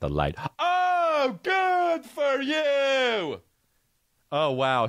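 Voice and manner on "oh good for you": mock patronizing. Mocking a patronizing reply.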